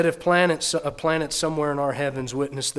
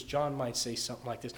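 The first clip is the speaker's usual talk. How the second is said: normal talking voice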